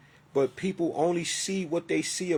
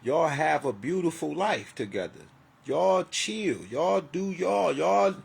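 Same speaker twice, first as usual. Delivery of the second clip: sarcastic dismissal; 3 semitones higher, 3 dB louder than usual. Real, not acted.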